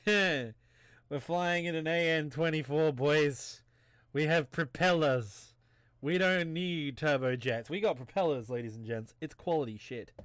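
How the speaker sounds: loud, slow Southern drawl; Southern good old boy accent. Acted. Pilot bragging to ladies and gents about propellers, big Southern accent. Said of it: "I'm gonna do the whole thing in this".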